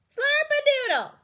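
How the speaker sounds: high, loud, projected; strong speaker voice. Shown as a demonstration. Teacher demonstrating the strong speaker voice, loud. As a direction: call it out to a group. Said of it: "This is your strong speaker voice".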